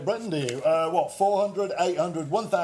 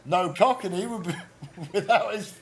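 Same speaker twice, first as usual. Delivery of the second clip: laughing through it. Retold or imitated. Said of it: "To which I would reply".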